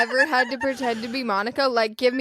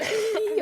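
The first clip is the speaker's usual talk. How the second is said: short forced snicker; 7 semitones higher than usual. Shown as a demonstration. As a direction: squeeze out a fake little snicker. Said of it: "Can you do a demo?".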